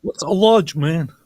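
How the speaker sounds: can't make sense of the word; baffled. Real, not acted. Cohost puzzling over a chat typo, loud baffled question.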